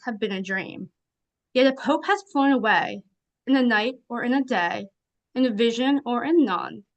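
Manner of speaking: measured poetry reading, pausing between lines; poem recitation. Acted. Guest reads a Poe poem to the live event, measured recitation. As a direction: recite it in measured phrases, softening at the close.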